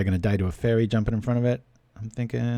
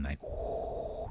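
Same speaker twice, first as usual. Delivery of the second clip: wind whoosh; 6 semitones lower, 12 dB quieter than usual. Retold or imitated. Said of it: "you just hear this wind".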